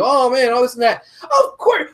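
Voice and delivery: mock the obvious, voice breaking upward; exasperated rant. Real, not acted. Ranting to friends about obvious booking, exasperated high voice. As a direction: voice jumps high in exasperation, cracking on of course.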